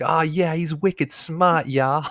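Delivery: put-on Boston fisherman's accent. Imitating the fishermen the speaker is describing, Boston accent. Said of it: "the Boston accent ones".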